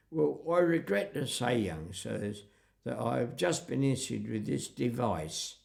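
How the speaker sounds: West Country countryman declining politely; imitated West Country speaker; West Country accent. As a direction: put on a rustic West Country burr. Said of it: "Afraid I'm using a West Country accent".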